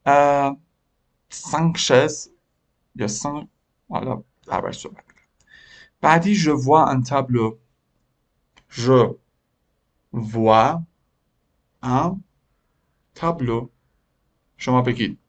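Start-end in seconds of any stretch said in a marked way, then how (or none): 1.3-2.3 "سانک شز" with no s sound at the end; no plural s. Shown as a demonstration. Teacher shows how to say "سانک شز", slowly, without the s. 6.4-13.7 "je vois un tableau" drawn out with long pauses; slow dictation. Shown as a demonstration. Teacher dictates "je vois un tableau" to the pupils, slowly. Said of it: "teacher dictates word by word".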